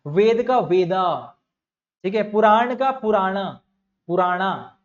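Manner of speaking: slow, lengthening the aa in वेदा and पुराणा; English-style वेदा and पुराणा; added final a demo. Shown as a demonstration. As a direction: show वेदा and पुराणा with the extra aa. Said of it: "एन ए लगा देते हैं last में".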